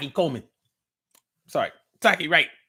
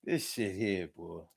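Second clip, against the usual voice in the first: hushed aside; 8 semitones lower, 8 dB quieter than usual. Retold or imitated. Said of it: "And I'd be like".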